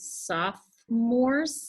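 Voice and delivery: "Sophomores" drawn out very slowly as soph-mores; syllables pulled apart. Shown as a demonstration. Teacher sounding out a funny word, "Sophomores" slowly split in two. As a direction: stretch "Sophomores" into two long separate syllables. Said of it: "we just say it really fast".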